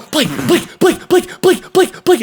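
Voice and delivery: urgent calls climbing in pitch; calling a name. Retold or imitated.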